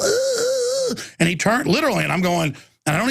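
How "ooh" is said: very high, drawn-out mock moan; imitated little ooh. Guy in Facebook video, mimicked high ooh. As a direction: mimic a squeamish high whimper. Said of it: "he makes a little".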